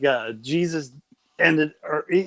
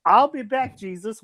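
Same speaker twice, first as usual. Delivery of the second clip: put-on British accent; 5 semitones higher than usual. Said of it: "the British accent Jesus".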